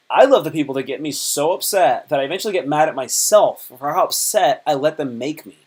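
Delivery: exaggerated fake delight, leaning on love; sarcastic. Shown as a demonstration. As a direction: oversell the love so it means the opposite. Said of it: "That's how you, that's how you do sarcasm".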